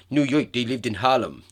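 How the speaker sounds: jokey put-on New York accent. Shown as a demonstration. Podcaster carrying on her joke in a New York accent. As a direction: say it like a mock New Yorker. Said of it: "That's my New York accent".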